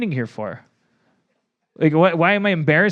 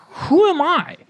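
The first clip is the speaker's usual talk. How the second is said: bewildered; 13 semitones higher, 3 dB louder, slower than usual. Acted. Staff member is left bewildered.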